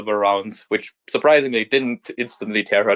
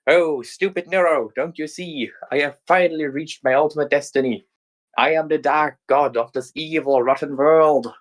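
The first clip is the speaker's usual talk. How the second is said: raised, grand evil sister; gloating villain queen; 4 semitones higher than usual. Acted. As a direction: relish your dark destiny.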